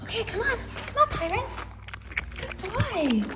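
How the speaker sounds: high sing-song encouragement; high coaxing. Real, not acted. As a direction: coax him gently toward the water. Coaxing dog to water.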